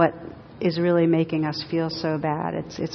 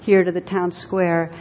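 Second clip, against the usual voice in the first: mock infuriated; 5 dB louder than usual. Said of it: "the policeman gets really infuriated".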